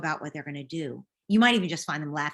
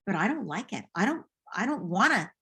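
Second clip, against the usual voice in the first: upset daughter; 3 semitones higher, 4 dB louder than usual. Retold or imitated. Daughter protesting.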